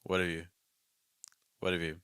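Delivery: "What have you" merged as whaddav-you; contracted "have you". Shown as a demonstration. Teacher models next phrase, "have" contracted. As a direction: run "What have you" together, keeping "you". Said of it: "Our next one".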